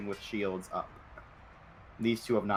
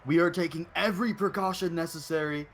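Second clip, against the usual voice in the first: firm, raised guard command; stern city guard; 5 semitones higher than usual. Acted. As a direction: order them to kneel, firmly. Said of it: "they say, um, like".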